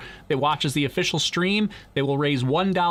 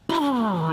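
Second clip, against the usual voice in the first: imitated rocket ignition; 9 semitones higher than usual. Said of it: "Daniel wants me to do that again".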